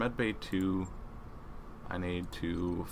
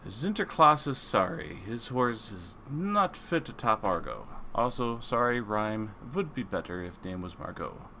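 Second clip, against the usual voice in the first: mock German-accented broken English; 3 semitones higher than usual. Reading Santa's crumpled note aloud, mock German accent. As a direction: read it in a playful, halting German accent.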